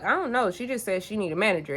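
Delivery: quiet, calm, unbothered shrug of a reply. Retold or imitated. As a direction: play it totally chill while she fumes. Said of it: "Exactly how I'm speaking right now".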